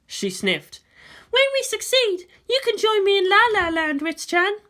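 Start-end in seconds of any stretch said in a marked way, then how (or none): 1.3-4.6 much higher, louder woman's voice; a tense commander on the eve of battle; Misato's voice. Acted. Misato brooding to Ritsuko about tomorrow, high and loud.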